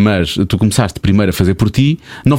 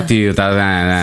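lower, nasal Cascais snob drawl; posh Cascais accent; 3 semitones lower, much slower than usual. Retold or imitated. Imitating a posh Cascais kid, nasal and lazy. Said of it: "mais anasalada".

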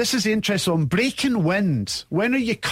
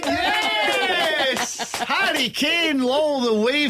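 excited welcome; 8 semitones higher, much slower than usual. Real, not acted. Host's excited welcome on phone.

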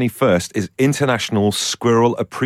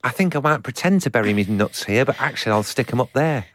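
1 squirrel voice again. Pretend. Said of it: "do your squirrel voice again".

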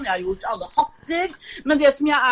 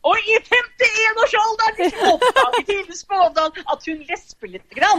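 mock announcement; 8 semitones higher, 3 dB louder, slower than usual. Real, not acted. Forteller om seg selv i tredje person.

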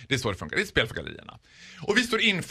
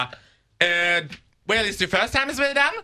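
high, laughing, careless officer voice; laughing casual officer; 6 semitones higher, slower than usual. Retold or imitated. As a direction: toss it off like a bored officer, much higher. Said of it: "Hon bara".

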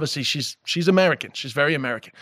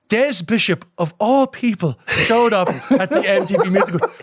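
mock disapproval, higher pitched, lingering on the dig; passive-aggressive; 3 semitones higher than usual. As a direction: quote it with a pointed, passive-aggressive emphasis. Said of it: "so beautifully passive-aggressive".

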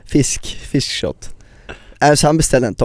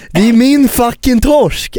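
high, slow, louder yell about his cod; mock yell; 10 semitones higher, 4 dB louder, slower than usual. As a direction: bellow the claim. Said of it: "hur Albin liksom skrek". (hög, långsam, högljudd imiterad skrik)

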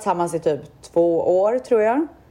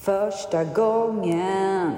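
laughing; 4 dB quieter, much slower than usual. Real, not acted. Laughing at the friend's story.

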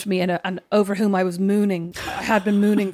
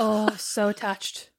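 lovestruck swoon; 4 dB quieter, much slower than usual. Retold or imitated. Mock lovestruck quote.

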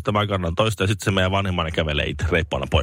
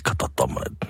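whispered aside; 8 semitones lower, 4 dB quieter than usual. Retold or imitated. Tourists showing the video at home.

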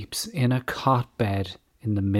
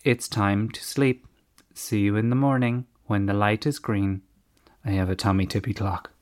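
monotone voice. Retold or imitated. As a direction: keep it dull and level, no emotion. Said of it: "in a monotone voice".

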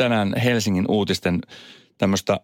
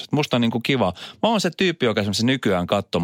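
normal talking voice

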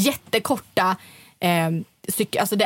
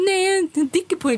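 high-pitched mock protest; mocking imitation; 10 semitones higher than usual. Retelling the friend's refusal to let her sleep over, mocking high voice. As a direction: mimic a friend's excuses in a silly high voice.

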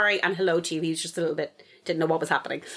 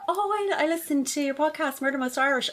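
imitated fan, pitched up; excited fan; 7 semitones higher than usual. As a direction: gush politely like a listener. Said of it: "and she was like".

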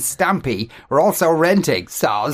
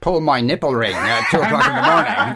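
laughing. Pretend. Mock neighbour's late-night scream.

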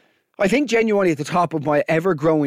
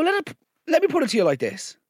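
indignant; 8 semitones higher, faster than usual. Retold or imitated. Confronting the cashier.

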